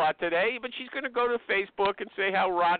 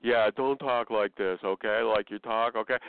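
imitating the boss; 8 semitones lower than usual. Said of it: "I get told".

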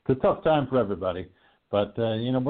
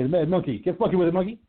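rising hype-man call; wrestling-style intro; hype introduction; 8 semitones higher than usual. Real, not acted. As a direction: pump up the guest. Hyping up the guest introduction.

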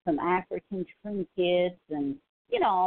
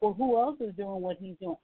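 mocking a follower. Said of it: "some people are like".

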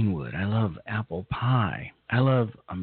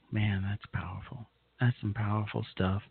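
softer, moved and a bit teary; choked up; 2 semitones lower, 6 dB quieter than usual. Real, not acted. Host moved by a patriotic song, softly choked up. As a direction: quietly overcome after the song. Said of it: "I teared up".

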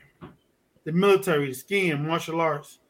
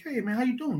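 higher-pitched, chummy imitated hello; friendly greeting; 6 semitones higher, 6 dB quieter than usual. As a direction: greet like an overfriendly stranger. Acting out stranger's friendly greeting.

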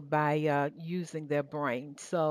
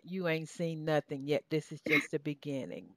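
put-on Southern accent; 3 semitones lower, 5 dB quieter than usual. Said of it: "in my Southern accent".

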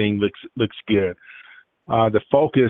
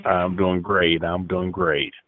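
over a landline phone; 4 semitones lower, 4 dB quieter, slower than usual. Real, not acted. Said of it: "Sound like you're on a landline".

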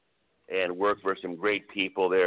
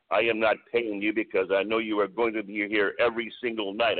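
imitated French Canadian accent, lightly done. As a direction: quote him in a mild French Canadian accent. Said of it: "in this very thick French Canadian accent".

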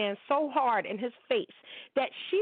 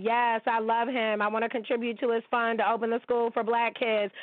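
mocking women fans. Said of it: "you women are like".

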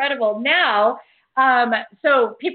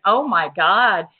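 excited thought; 4 semitones lower, 3 dB louder than usual. Retold or imitated. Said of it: "and I'm thinking".

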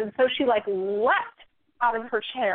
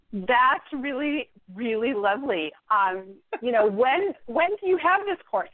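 sweeten it to hide the anger; mock sweet politeness. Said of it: "I close the book very gently and I say".

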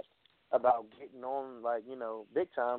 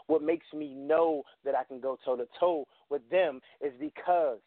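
wrestling promo. Pretend. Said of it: "good fantasy promo".

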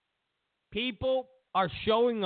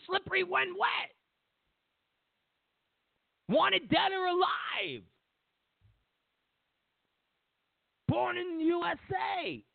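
mock announcing song titles; 10 semitones higher than usual. Naming songs by a band and a singer.

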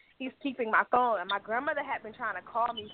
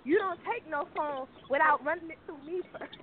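grandmother cursing; 4 semitones higher than usual. Retold or imitated. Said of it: "she was like".

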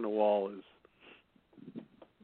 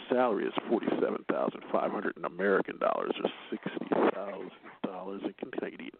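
sexy phone operator voice. Acted. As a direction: purr the news like a late-night hotline. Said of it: "I'm gonna do this in my sexy voice".

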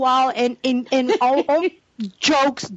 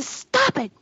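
laughing plea; 10 semitones higher than usual. Retold or imitated. Pleading with laughter at the jokes.

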